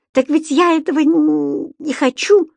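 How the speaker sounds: выше и громче, сбивчиво; торопливо возразить, запнувшись; взволнованный протест. A narrator's reading. Понеделькус возражает, выше обычного. (растерянный голос Понеделькуса)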